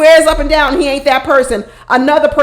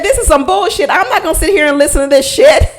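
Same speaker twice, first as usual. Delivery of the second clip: laughing while quoting; 3 semitones higher, faster than usual. Retold or imitated. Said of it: "LaRon said".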